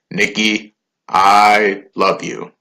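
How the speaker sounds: slow stiff robot voice; slow, halting robot voice. Retold or imitated. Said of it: "in his robot voice".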